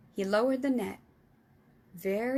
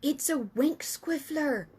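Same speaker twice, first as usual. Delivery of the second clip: thrilled whisper; 5 semitones higher, 3 dB louder, slower than usual. Acted. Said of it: "he whispered with a thrill".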